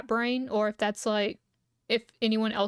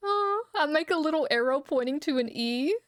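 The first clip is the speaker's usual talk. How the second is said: laughing through words; 4 semitones higher than usual. Real, not acted. Laughing at own joke.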